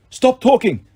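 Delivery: sharp, high commanding villain; stern villain voice. Acted. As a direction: order them to stop.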